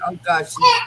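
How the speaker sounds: jumpy high-pitched panic; startled gasp. Retold or imitated. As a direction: caught off guard by her popping out. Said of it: "and I'm like".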